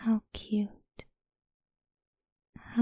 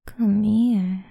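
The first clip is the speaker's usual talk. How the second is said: voiced call; 3 dB louder than usual. Calling the pet over.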